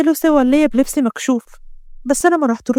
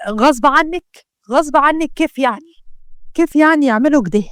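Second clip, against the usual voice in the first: a touch of put-on outrage, slightly raised; mock anger; 2 semitones higher than usual. Mohamed on the phone with Israa, mock-angry questioning. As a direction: fake being furious on the phone, lightly. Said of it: "اتكلم بعصبية مصطنعة".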